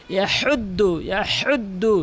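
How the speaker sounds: "ইয়াহুদ্দু" with strong raspy pharyngeal h; big ha. Shown as a demonstration. Teacher models the big ha, throaty h. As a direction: push h from mid-throat in "ইয়াহুদ্দু". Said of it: "বড় হা উচ্চারণ করতে হবে".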